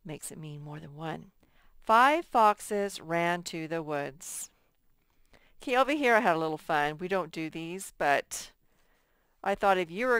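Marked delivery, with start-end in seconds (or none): 1.8-4.5 each word spelled out slowly; slow, deliberate reading. Shown as a demonstration. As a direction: read it slowly for children. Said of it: "teacher reads example slowly".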